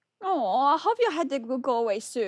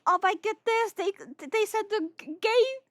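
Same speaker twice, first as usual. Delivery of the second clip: mock excited; 9 semitones higher, slower than usual.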